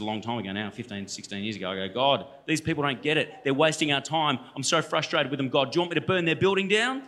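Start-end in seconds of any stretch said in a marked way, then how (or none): 1.9-7.0 mildly exasperated prayer, rising at the end; a touch of exasperated pleading; retold frustration. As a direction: re-enact venting to God, building to an offer. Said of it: "I was so frustrated".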